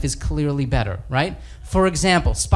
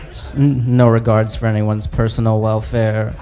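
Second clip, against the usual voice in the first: sheepish Bruce Banner; 6 semitones lower than usual. Acted. Banner voiced low, sheepish.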